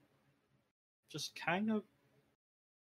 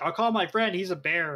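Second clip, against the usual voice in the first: mock chicken threat; 4 semitones higher, 5 dB louder than usual. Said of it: "you're all like".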